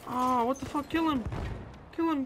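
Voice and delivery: high, loud, urgent yelling; frantic urging. Real, not acted. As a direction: yell at the teammates to finish him. Urging teammates in a firefight.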